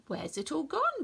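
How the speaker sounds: gasped. Acted. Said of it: "gasped the little billy goat Gruff".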